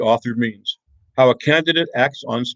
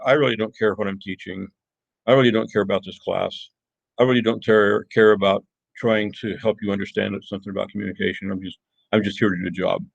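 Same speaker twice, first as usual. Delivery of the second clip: mock indifference. Teacher imitating an uncaring teacher for the class, mock indifference. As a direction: sound like you're only here to do a job. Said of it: "speaks in a monotone or whatever".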